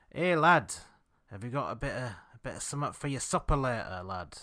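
fake Yorkshire accent. Dog walker hailing a stranger on a hill, mock Yorkshire accent. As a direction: imitate a local with a put-on Yorkshire accent. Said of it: "your fake Yorkshire accent".

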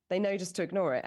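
ordinary talk

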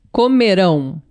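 COMERÃO with the weight on RÃO; stress on last syllable. Shown as a demonstration. Co-teacher answering with the future form, final-syllable stress. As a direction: finish firmly on the RÃO of comerão. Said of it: "como falamos, Letícia, o verbo comer?".

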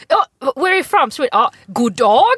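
high, loud talking lion voice. Retold or imitated. A tame lion greets safari tourists in a silly high voice. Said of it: "Det är så här".

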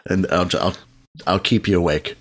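soft, low ASMR voice; hushed, low ASMR murmur. Pretend. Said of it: "I'll try to use my A S M R voice".

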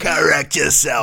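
slow, loud, bossy; mock stern command. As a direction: order it, playfully stern.

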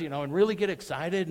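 deliberately worked-up delivery; excited voice inflection. Shown as a demonstration. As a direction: keep the hype going, high and loud. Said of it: "I'm using a little voice inflection".

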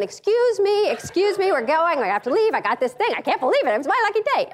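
play-acted flustered getaway; flustered excuses. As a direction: push through a crowd making excuses. Acting flustered escape through crowd.

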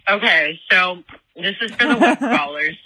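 talking through a mouthful of chips; chewing chips while speaking; eating chips. Real, not acted. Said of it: "Sorry, I'm eating chips".

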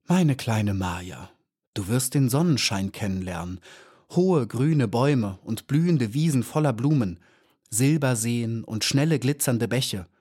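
sanft, zärtlich und langsam beginnend; liebreich. Acted. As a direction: liebevoll wie zu einem Kind sprechen. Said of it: "mit veränderter Stimme und sah Maya liebreich". (alte Lehrerin spricht Maya leicht liebevoll an)

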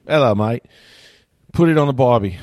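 put-on cliché Aussie greeting, Australian accent; bad Australian accent. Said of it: "that's about all I can do".

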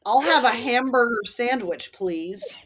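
lightly mocked Brit-doing-American accent; British actor's American accent. British actor playing an American ordering, mock American accent. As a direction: order food in a slightly overdone fake American accent. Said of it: "British actors going".

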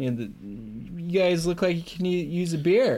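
high-pitched, over-casual invitation; feigned nonchalance. Acted. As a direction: stall them with chummy small talk. Greylick stalling with fake friendliness.

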